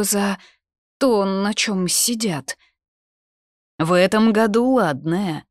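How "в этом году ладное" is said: higher, louder appraisal; approving. A narrator's reading. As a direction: voice the guard's approval, pitched up. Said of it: "одобрил он". (одобрительно, громче и выше)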